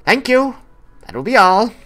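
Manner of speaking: curt dismissal. Acted. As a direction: send the assistant off with a half glare. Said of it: "kind of half glaring".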